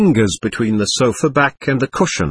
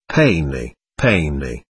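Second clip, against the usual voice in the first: ordinary delivery, nothing marked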